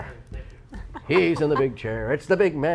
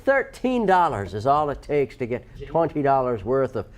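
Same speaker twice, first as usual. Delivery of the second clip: put-on mellow, sneaky Irish accent; sleepy Irish accent. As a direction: sell it in an easygoing Irish lilt. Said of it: "Like you're about to fall asleep".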